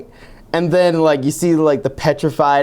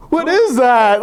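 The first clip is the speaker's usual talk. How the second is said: stunned reaction; 10 semitones higher, 3 dB louder, slower than usual. Retold or imitated. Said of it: "what made the video was the guy's reaction".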